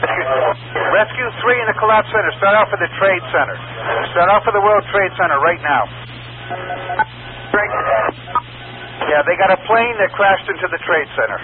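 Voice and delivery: tinny radio call to a unit; urgent firefighter radio. Real, not acted. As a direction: bark the call over the radio. Radio calls to rescue unit.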